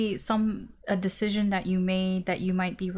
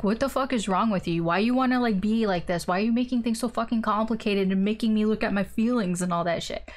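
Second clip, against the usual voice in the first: mock angry rant; faster than usual. Partner lashing out at the Scorpio over feelings, mock angry. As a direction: play the fed-up partner venting, half-joking. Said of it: "they actually might come at you angry".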